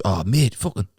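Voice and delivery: startled Newcastle seller hearing the planes; mock Geordie fright; Geordie alarm. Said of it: "he goes".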